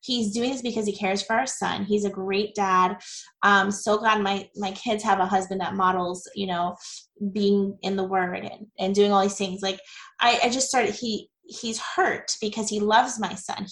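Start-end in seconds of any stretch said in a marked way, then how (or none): 0.0-9.6 grateful inner thoughts. Retold or imitated. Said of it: "And I was like".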